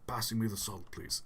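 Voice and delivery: documentary-narrator voice for small talk; gently imitated nature presenter; David Attenborough. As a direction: ask politely in a narrator's measured tone. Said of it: "and he's just like".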